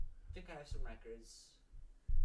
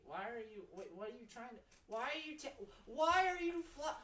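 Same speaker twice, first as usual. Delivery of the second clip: rising, louder baffled questions; getting louder; 12 semitones higher, 14 dB louder than usual. Acted. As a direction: build from puzzled to loud. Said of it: "Sorry, I'm being loud".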